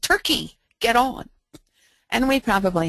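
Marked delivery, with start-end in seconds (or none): 0.0-1.3 high calling yell across a parking lot; yelling to the barracks. Retold or imitated. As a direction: call the soldiers out to dinner. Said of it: "stood outside and yelled".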